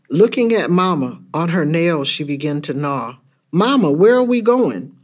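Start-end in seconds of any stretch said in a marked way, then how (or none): 3.5-4.9 put-on high-pitched kid's question; curious child. Child in the car asking Mama where, curious. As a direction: ask like a puzzled child.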